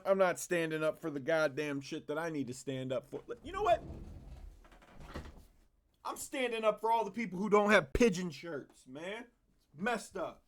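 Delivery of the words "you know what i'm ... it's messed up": mock activist. Mock crusader speech.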